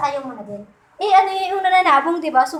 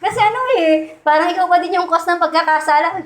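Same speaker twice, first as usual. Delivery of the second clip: the pastor gently correcting the cockfighter. Retold or imitated. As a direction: correct him kindly but firmly, pitched up. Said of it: "Sabi niya".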